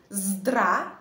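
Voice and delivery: "zdra" loud and held on the vowel; syllable demo. Shown as a demonstration. Teacher repeats for learners, loud long "zdra". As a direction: give "zdra" firmly as a separate chunk. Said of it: "Encore une fois".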